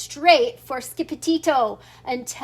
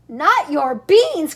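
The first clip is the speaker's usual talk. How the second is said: slow, louder outraged protest; outraged cry; 6 dB louder, slower than usual. Acted. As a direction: protest the beans slowly, with indignation. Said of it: "cried Skipetito, outraged".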